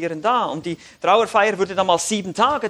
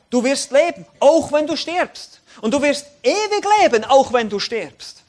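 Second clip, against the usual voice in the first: raised, forceful preaching voice; emphatic promise; 5 semitones higher, 5 dB louder than usual. Acted. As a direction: proclaim the promise with punch. Preacher voicing Jesus' promise emphatically. (eindringliche, laute Verheißung)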